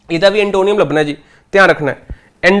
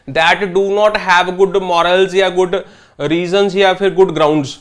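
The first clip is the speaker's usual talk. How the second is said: slow dictation; much slower than usual. Shown as a demonstration. Teacher dictating a definition slowly.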